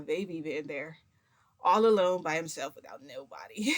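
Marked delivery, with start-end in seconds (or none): 1.6-3.7 real tearful catch in the voice; near tears. Real, not acted. Picturing their baby all alone, fighting back tears. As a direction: voice breaking up, close to crying. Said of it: "cry on camera".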